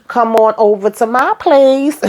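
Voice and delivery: playful smooth soul-singer come-on, pitch swooping; soul-singer impression. Recap host voicing Cal inviting Dale over, light soul-singer impression. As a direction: croon it lightly like a soul seducer. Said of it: "in my soul-singer voice".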